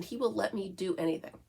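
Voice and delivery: usual speaking voice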